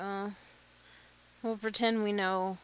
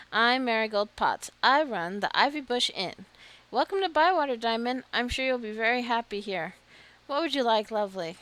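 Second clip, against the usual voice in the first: lightly voiced cheerful hostess, a bit louder; friendly innkeeper; 3 semitones higher, 6 dB louder than usual. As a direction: welcome the newcomer warmly like a hostess. Voices Marigold introducing herself.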